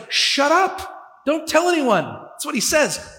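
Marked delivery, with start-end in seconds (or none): 0.1-2.0 Jesus hushing them. Acted. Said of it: "he rewards them by saying".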